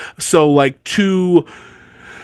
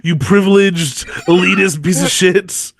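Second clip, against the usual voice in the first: mock outrage; 2 semitones higher than usual. Cohost mock-scolding her friend over a one-star review, hammed-up outrage. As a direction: fake fury at a sausage snob.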